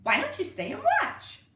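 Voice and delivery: put-on cheeky kid inviting firemen; little boy. A narrator's reading. Little boy asking the firemen, high and bright. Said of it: "the little boy said".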